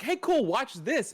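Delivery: high, slow showing-off dad; hammy dad calling out to watch. Retold or imitated. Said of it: "my dad was like".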